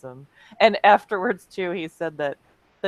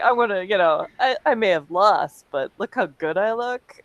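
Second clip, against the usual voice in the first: smug boast; 3 semitones higher, 4 dB louder than usual. Retold or imitated. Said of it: "Roger's like".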